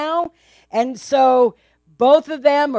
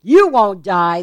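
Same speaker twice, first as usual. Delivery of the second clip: slow, louder serpent hiss; 3 semitones lower, 6 dB louder than usual. Acted. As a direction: hiss the reassurance slowly like a snake. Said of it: "the serpent hissed".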